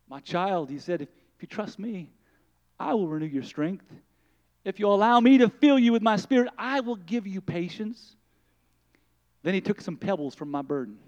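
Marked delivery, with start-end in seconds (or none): 0.1-0.7 put-on softer, lower Lord speaking tenderly to his child; quiet loving voice of the Lord; the Lord, gentle and hushed. The Lord comforting the weary mother, softly. 1.0-8.2 the Lord, gentle and hushed. Acted.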